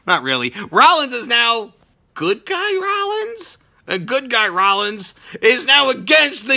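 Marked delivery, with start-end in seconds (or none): 0.7-3.6 can't believe it; incredulous. Real, not acted. Incredulous question.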